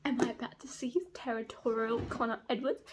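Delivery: softly asked, hopeful question; barely daring to hope, keep it quiet; hushed anticipation. Real, not acted. Reader hoping for a jealous scene, hushed anticipation.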